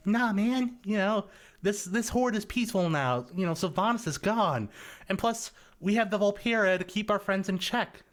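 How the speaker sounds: easygoing imitation of a friend's orc; laid-back orc. Recalling what the voice actor said, playful orc voice. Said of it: "he was just like".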